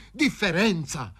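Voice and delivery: high, drawn-out exclamation; exclaiming scornfully. A narrator's reading. Fazio throws Paroni's word back, exclaiming. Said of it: "esclamò il Fazio".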